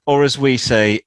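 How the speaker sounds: mock cultured. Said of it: "in cultured Europe".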